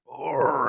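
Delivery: mild strained grunt of effort; imitating his own grunt over socks; mock grunt. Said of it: "I'm like".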